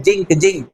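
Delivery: जिंक said "jink", with J for Z; the wrong "jink" for जिंक, no Z buzz; children's mispronunciation. Shown as a demonstration. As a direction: start जिंक with J as in "jeep". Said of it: "बहुत बच्चे pronounce करते हैं".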